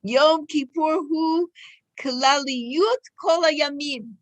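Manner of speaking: slow, measured Hebrew reading. Real, not acted. Teacher reads Rebbe Nachman's Torah to listeners, slow reading. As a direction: read the text out slowly, word by word. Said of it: "I'll read it slowly".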